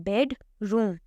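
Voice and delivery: बेडरूम broken after बेड; split into syllables. Shown as a demonstration. Teacher showing students two syllables, बेडरूम split in two. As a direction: say बेडरूम as two beats, बेड, then रूम. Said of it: "वो दो बारी में".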